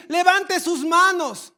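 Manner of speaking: preacher mocking a worship leader's call, slow. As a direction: parody a sleepy worship leader. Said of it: "O en cambio aquí".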